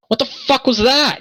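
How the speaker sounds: very high falsetto shriek of disbelief; woman's outraged yell. Acted. Woman behind him after door closes, high outraged yell. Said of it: "the woman behind him go".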